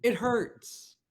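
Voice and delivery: high, strained plea in pain. Acted. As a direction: wince through a headache. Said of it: "you lower your voice".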